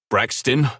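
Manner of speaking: loud sharp call of the name; snap. Acted. Drew snapping at his brother on the phone. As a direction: bite out the name angrily. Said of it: "I snap".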